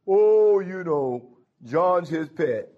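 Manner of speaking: loud, high drawn-out 'oh' easing into grumbling; mock whining about the favorite; mock complainer. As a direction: imitate a jealous disciple's complaint. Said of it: "rather than say".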